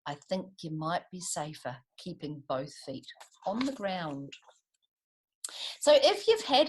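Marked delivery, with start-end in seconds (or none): 0.1-4.3 gently smiling. A narrator's reading. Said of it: "he smiled and looked around".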